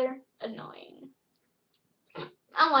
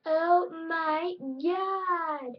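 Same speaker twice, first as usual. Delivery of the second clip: very slow, higher, drawn-out exclamation; annoying opposite self; 5 semitones higher, much slower than usual. Pretend. Opposite self resuming a story, drawn-out mock drama. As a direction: stretch every word in mock drama. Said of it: "how annoying my opposite self was".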